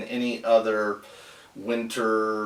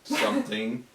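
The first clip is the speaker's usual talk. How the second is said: staccato; 3 semitones higher, much slower than usual. Shown as a demonstration. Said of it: "one word at a time".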